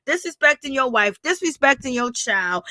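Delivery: ordinary delivery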